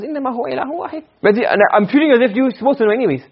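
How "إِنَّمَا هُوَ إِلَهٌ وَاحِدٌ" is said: softer, higher, quick aside; common-knowledge reminder. Shown as a demonstration. Teacher citing what everybody knows, soft light reminder. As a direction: say it lightly and quietly, pitched up. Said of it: "something that everybody knows".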